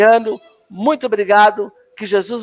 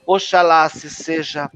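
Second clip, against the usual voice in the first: measured, solemn creed recitation; recited creed. Acted. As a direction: recite each belief as a formal prayer. Recita o credo da Umbanda. (credo recitado com solenidade)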